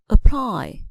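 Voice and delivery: "apply" with the stress on its last syllable; second-syllable stress. Shown as a demonstration. Teacher showing verb stress to learners, "apply" stressed on second syllable. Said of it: "Verbs stress the second syllable".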